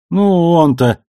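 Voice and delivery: surprised protest. Acted. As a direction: cut off mid-protest. Amos protests, cut off.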